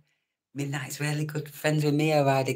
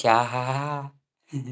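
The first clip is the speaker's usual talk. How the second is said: mock laugh; 4 dB louder than usual.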